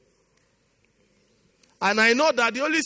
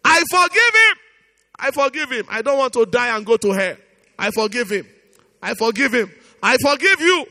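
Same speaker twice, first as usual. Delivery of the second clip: modelled forgiveness prayer; 5 dB louder than usual. Shown as a demonstration. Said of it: "before we continue in prayers".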